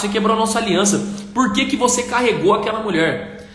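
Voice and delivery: a monk rebuking his companion for carrying the woman; indignant monk. Acted. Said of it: "E ele começou a falar assim".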